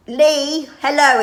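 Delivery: cheerful greeting. Shown as a demonstration. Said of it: "actually say".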